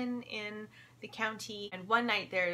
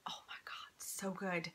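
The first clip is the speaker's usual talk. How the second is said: whispering; 10 dB quieter than usual. Real, not acted. Gushing over a book.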